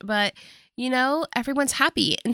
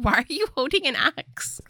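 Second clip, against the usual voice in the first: higher-pitched mock disbelief; baffled question; 5 semitones higher than usual. Natalie seeing his profile pictures, baffled. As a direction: imitate her puzzled reaction, pitch jumping up. Retold baffled reaction to photo.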